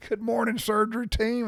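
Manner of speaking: bright greeting. Retold or imitated. Cheerful greeting entering the OR.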